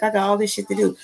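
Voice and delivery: put-on high complaint; mock complaint. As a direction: lightly act out someone overwhelmed by chores. Acted complaint of swapped-back self.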